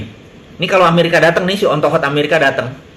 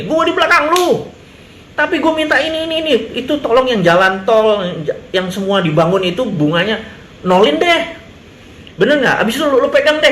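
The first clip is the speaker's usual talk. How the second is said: high, wheedling deal voice; a leader sweet-talking China for zero-interest loans; mock sly bargainer; 5 semitones higher than usual. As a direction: coax the delegation, pitched up.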